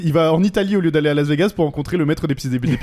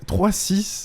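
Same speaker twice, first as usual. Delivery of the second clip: higher, rising disbelief; incredulous echo; 5 semitones higher than usual. Real, not acted. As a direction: repeat it as a stunned question. Stunned reaction to the spectator rating.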